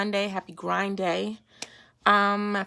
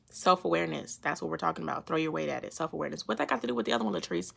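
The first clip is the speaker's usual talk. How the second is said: low murmur to herself; muttered softly; 4 semitones lower, 8 dB quieter, faster than usual. Acted. Host quietly musing to herself, mumbled. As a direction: mumble it under your breath. Soft muttered self-talk.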